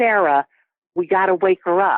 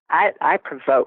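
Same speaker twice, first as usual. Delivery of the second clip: usual speaking voice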